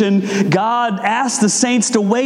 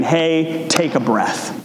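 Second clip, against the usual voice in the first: gentle reminder; 3 semitones lower, slower than usual. Retold or imitated. God gently telling the impatient shopper to breathe, calmly. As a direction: ease the listener into a breath. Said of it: "God is saying".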